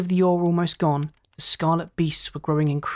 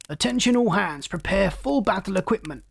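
higher-pitched urgent battle order; intercom command; 4 semitones higher than usual. Acted. Furious captain alerts his crew on intercom, urgent command. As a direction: call all hands, pitch raised.

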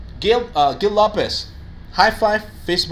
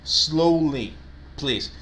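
slow model sentence; much slower than usual. Shown as a demonstration. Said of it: "So the sentence will be".

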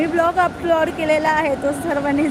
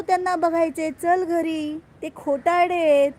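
a higher lightly voiced child; imitating her son; 5 semitones higher, 3 dB louder than usual. Son refusing to see the chief minister, higher child voice. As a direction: play the little boy insisting. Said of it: "काय बोलतो?".

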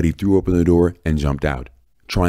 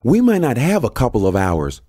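high-pitched, alarmed yell; exasperated, higher and louder; agitated yell; 11 semitones higher, 5 dB louder than usual. A narrator's reading. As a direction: raise your voice in pressing, indignant questions. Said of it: "Janice yelled".

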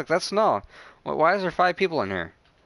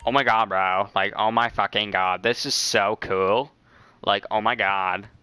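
gay guy impression; 4 semitones lower than usual. Streamer showing off the impression, lightly camp gushing. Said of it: "Is that, like, the gay guy impression?".

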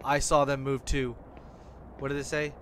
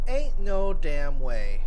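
loud disbelief; 9 dB louder, slower than usual. Real, not acted. Disbelief at many shifts.

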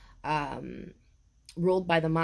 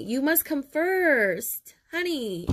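tearful; 7 semitones higher, much slower than usual. Real, not acted. Repeating card through tears.

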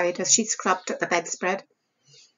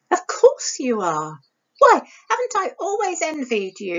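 lightly voiced girl, eager and higher; admiring younger sister; 3 semitones higher than usual. Cassie reassuring Isabel about her looks, eager and admiring. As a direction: gush over your sister's hair.

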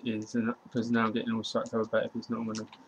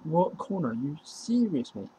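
high, loud stunned cry of disbelief; shocked disbelief; 6 semitones higher, 4 dB louder, slower than usual. Real, not acted. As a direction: yelp it out in shock. Disbelief at opponent's play.

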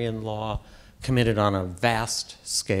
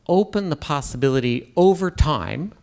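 over time pushed a bit higher and louder; stress on over time; 4 semitones higher, 5 dB louder than usual. Real, not acted. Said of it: "I emphasize the word over time".

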